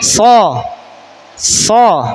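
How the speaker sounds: so said twice with a firm clear o; letter demo. Shown as a demonstration. Teacher adds the fourth letter for pupils, emphatic. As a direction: give the letter so, then repeat it. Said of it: "Satu lagi".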